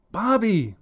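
high, loud shriek of his name. Acted. Mother shrieking at her son, loud and high. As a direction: let the name shrill out in anger. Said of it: "Sandra shrieks".

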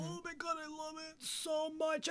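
high, drawn-out squeal of delight; gushing. Real, not acted. Cohost gushing about rare steak, high excited squeal. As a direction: swoon over the food, voice way up high.

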